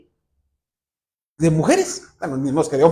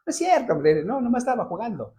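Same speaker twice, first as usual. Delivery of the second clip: put-on laughing boy; 5 semitones higher, 6 dB quieter than usual. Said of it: "se pone a reír y dice".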